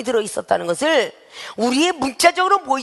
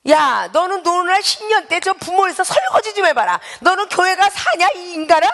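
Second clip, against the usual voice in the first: scolding family member; 7 semitones higher than usual. Retold or imitated. Family member scolding churchgoer, mock angry. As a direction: tell them off sharply. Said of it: "이런 사람도 있고요".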